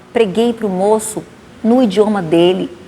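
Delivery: usual speaking voice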